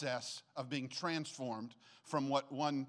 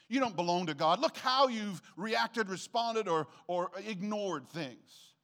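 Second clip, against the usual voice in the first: rising accusation, louder toward the end; accusing enemy voice; 3 semitones higher, 5 dB louder than usual. Retold or imitated. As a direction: jab each charge harder. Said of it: "He wants to scream at you".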